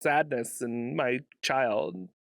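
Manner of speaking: mock American parent. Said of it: "American parents be like".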